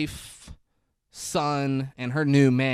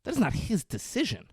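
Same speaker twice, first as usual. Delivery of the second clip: indignant; 8 semitones higher, 4 dB quieter than usual. Retold or imitated. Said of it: "He's like".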